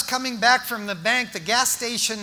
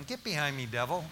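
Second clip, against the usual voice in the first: rebuking the devil; 6 semitones lower, 9 dB quieter, faster than usual. Retold or imitated. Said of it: "And I'm thinking".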